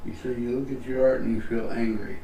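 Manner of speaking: talking around a cap; words muffled by a cap in the mouth; mouth full. Real, not acted. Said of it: "I had a cap in my mouth".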